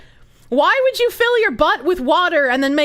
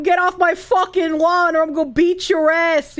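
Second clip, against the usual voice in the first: put-on angry old man. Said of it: "I just sound like I'm".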